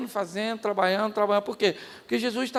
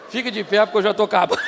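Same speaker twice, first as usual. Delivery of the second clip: teasing command; 6 dB louder, faster than usual. Real, not acted. Preacher teasing the audience.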